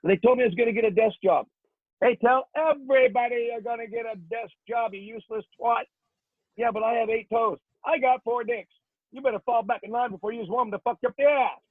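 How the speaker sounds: Marine drill sergeant tearing into recruits; drill instructor rant. Acted. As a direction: bark it at the platoon with rhythm.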